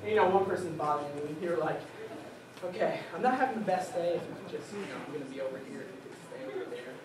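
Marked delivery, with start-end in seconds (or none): 2.6-6.9 soft, hushed, patient request; polite and quiet. Retold or imitated. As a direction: keep it small and polite, almost under your breath. Politely asking a bothersome person.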